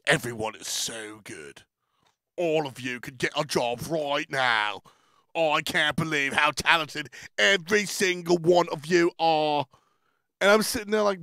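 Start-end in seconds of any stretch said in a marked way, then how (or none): 0.1-9.6 put-on British judge, hushed start then building; Hindu Man gushing. Imitating a judge praising ten contestants, gushing. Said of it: "a mean British man".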